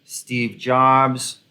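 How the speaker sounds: lightly mocking, very slow grand claim; mock self-important founder. Commentator mimicking a disgraced tech founder, mildly self-important. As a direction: draw out every word like a would-be visionary. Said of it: "She was like".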